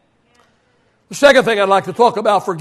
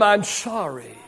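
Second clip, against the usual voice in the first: quiet humble apology; 12 semitones lower, 12 dB quieter than usual. Retold or imitated. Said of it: "and tell them".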